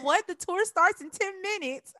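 mock-excited disbelief at the news. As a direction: imitate his excited surprise. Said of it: "He was so excited".

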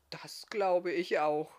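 slow, contented agreement; happy murmur. A narrator's reading. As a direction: draw it out happily. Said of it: "murmelte Barthamiel glücklich".

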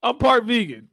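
high-pitched laughing words; laughing through the words. Real, not acted. Laughing at his own slip.

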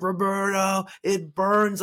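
high, loud mock wail; imitated struggling client. Client crying out to her coach, high pained imitation. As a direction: mimic a client protesting the burn. Client cries out about the burn.

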